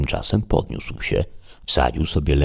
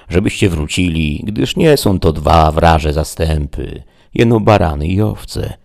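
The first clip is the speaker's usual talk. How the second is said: Sancho the squire; 4 dB louder than usual. Acted. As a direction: scold your master like a fretful servant. Sancho continues his reproach.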